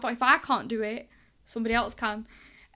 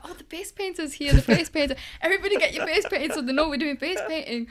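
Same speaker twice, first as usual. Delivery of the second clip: imitating a manager's loud, higher-pitched announcement; manager calling out; 4 semitones higher, 6 dB louder than usual. Next manager tells everybody to get faces painted, calling out loudly. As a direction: call everyone over, loud and lifted.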